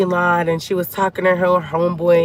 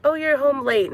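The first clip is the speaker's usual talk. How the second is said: high, meek little voice, mocking timid wives; meek mock wife; 6 semitones higher, 3 dB quieter than usual. Mocking the meek wife she is not, in a high timid voice. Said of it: "one of those wives that gonna be like".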